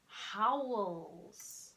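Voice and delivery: very slow, stretched-out words; drawn-out howl. Shown as a demonstration. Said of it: "Some interesting ones".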